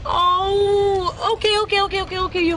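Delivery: upset whimper. Acted. Friend refuses to come help.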